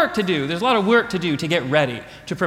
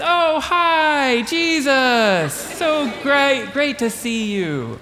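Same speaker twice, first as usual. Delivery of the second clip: high, gushing welcome; bright hostess greeting; 7 semitones higher, much slower than usual. Acted. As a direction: play Mary greeting the guest all sweetness. Mary greeting Jesus brightly.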